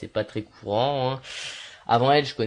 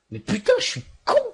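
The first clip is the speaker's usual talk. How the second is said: exasperated outburst; 9 semitones higher, 6 dB louder than usual. Real, not acted. Self-mocking outburst after whispering.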